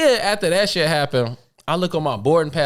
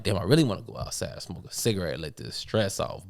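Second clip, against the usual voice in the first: tired sigh; 10 semitones lower, 9 dB quieter than usual. Retold or imitated. Retold weary inner thought.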